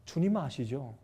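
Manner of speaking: low, hushed, trusting prayer; softly submit to God without complaint; uncomplaining prayer. Retold or imitated. Job prays after losing everything, quiet uncomplaining trust. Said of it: "불평 원망 안 했어요".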